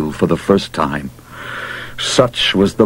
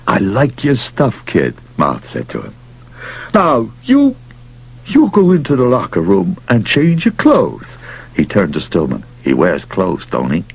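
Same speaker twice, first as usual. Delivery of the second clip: gruff pushy manager. Acted. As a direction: push hard like a desperate manager. Mouth orders Casey.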